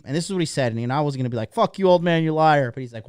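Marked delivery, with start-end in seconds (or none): 1.5-2.7 louder, indignant imagined comeback; mock outburst. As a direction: blurt out a mock accusation. Imagined outburst at old man.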